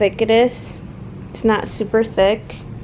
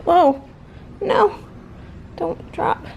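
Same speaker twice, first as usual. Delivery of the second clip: startled; 8 semitones higher, slower than usual. Real, not acted. Item slipping while filming.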